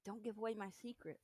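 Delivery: very soft mock protest; quiet aside. Teased host asking co-host to keep quiet, soft aside.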